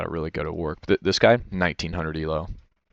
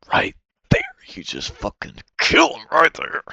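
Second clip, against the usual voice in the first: higher pitched exasperated cry, slowed down; frustrated outburst; 3 dB louder than usual. Real, not acted. Watching his replay, he yells at his own missed kill in frustration. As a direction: blurt it out in disbelief at yourself.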